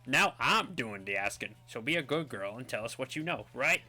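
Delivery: lightly voiced thug, leaning on words; bullying villain. Villain interrogating a girl, lightly voiced bully. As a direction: press her for answers, deliberately.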